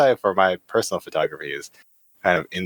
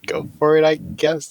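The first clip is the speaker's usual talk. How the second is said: unconvincing; 9 semitones higher than usual. Real, not acted. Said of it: "That, that doesn't sound very convincing".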